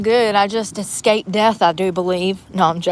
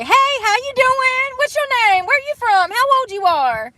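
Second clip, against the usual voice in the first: mock pickup guy; 13 semitones higher than usual. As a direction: ham up the creepy guy's questions. Mocking dudes who approach her.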